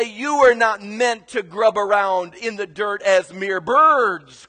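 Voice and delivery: lightly voiced exhorting preacher; mock-sermon exhortation; duck preacher. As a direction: preach it at the flock, building to the last word. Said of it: "He would look at them and say".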